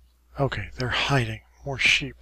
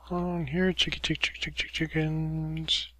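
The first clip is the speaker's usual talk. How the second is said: calling chickens; 4 semitones higher than usual. Pretend. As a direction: coax the chickens over. Coaxing chickens to come.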